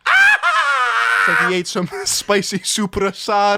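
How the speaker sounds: laughing out the words, slow and loud; cracking up mid-sentence. Real, not acted. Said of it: "I gotta hear that again".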